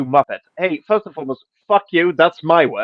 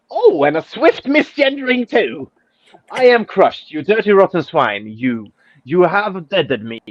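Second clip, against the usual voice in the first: higher, dripping mock wounded pride; mock sarcasm; 3 semitones higher than usual. Quoting the Twitter user's reply, mock sarcastic. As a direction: play the offended stranger, laying it on thick. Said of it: "But now I get the sarcasm".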